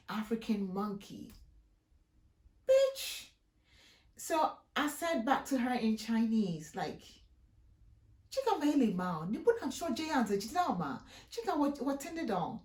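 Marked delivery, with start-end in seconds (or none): 2.7-3.3 high, loud outraged shout; sudden furious yelp; outraged yell. Real, not acted. Outraged exclamation at grandma. 7.6-12.6 retold angry scolding. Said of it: "I was screaming, I was shouting at her".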